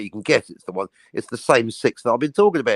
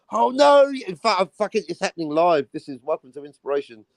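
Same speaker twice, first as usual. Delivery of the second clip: mock panic; 4 semitones higher than usual. Acts out comic character.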